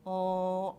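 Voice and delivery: L said as a held clear l, tongue behind the teeth; l sound. Shown as a demonstration. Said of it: "Say that sound".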